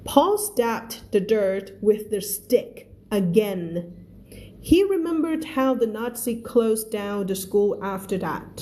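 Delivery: reads each English word slowly and clearly for learners; slow, careful read-aloud for the class; slow story reading. Shown as a demonstration. Teacher reads the book slowly to her students, careful read-aloud.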